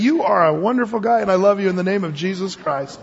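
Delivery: lightly hammed-up gushing praise; mock gushing blessing. Preacher imagines blessing an annoying coworker against his will, mock gushing.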